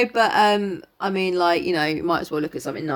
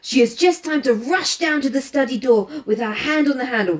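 lightly voiced French-accented detective; Poirot; 5 semitones higher, 4 dB louder than usual. Poirot laying out the girl's movements for his companion, lightly French-accented. Reads Poirot's explanation aloud.

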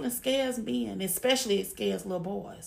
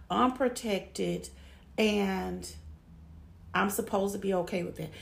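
sarcastic recap. Shown as a demonstration. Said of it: "a verbal visual".

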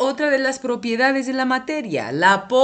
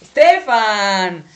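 louder, slow "Estefan" to get his attention; calling out; 6 dB louder, much slower than usual. Real, not acted. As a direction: call his name firmly. Calls the boy's attention.

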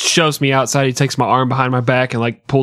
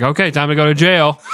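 cop shout; 3 semitones higher than usual. Retold or imitated. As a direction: bark the arrest order, half laughing. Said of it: "He's like".

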